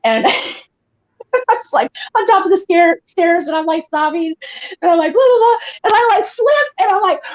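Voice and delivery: high, laughing retelling of a fall; can't get through the story for laughing; laughing while retelling. Retold or imitated. Caller on a radio show retelling her fall, laughing high.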